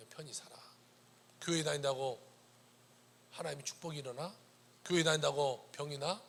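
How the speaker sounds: lightly voiced sneering doubter; mocking scold. Scoffers mocking someone's prayer, mild sneer. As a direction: scoff softly at the believer. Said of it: "사람들이 우리를 꾸짖어요".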